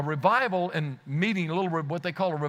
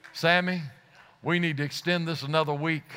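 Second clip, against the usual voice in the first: lower, chuckling pastor; smiling pastor; 4 semitones lower than usual. Retold or imitated. Pastor telling Sammy to extend meetings, chuckling. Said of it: "a smile on his face".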